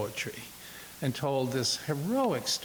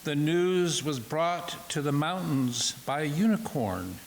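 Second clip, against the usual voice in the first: measured poetry recital; poem reading; 4 semitones higher than usual. Acted. Second poet takes alternate lines of Incantation, measured. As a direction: read the verse out in deliberate phrases.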